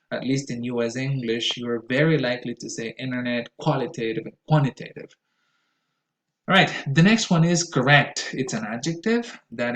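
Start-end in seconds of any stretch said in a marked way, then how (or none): 3.0-5.1 T-less "innernet" and "quannitative"; casual US internet, qualitative, and quantitative; connected-speech reduction. Shown as a demonstration. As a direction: let T vanish into N in internet, quantitative. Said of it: "but in connected speech".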